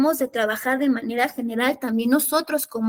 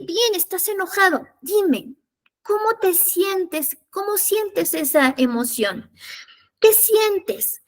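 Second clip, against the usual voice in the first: gentle parent; 4 semitones higher, slower than usual. Shown as a demonstration. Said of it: "le vamos a decir".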